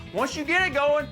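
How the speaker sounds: real heated excitement, rising; fired up. Real, not acted. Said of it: "Calm down, Cody".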